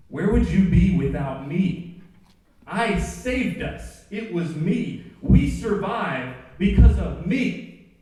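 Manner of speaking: loud, slow, snarling argument between two selves; Gollum quarrel acted out. Gollum screaming at Smeagol to leave, loud and slow. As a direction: spit it out like Gollum fighting himself.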